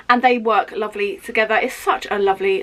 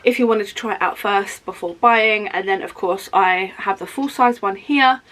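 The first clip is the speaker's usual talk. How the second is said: wheezy voice. Real, not acted. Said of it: "I'm so sorry if I sound wheezy".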